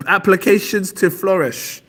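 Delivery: high, loud, laboured classroom reading; schoolchild reading aloud. Acted. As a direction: put weight on every word like a pupil reading out. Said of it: "every word you gotta put".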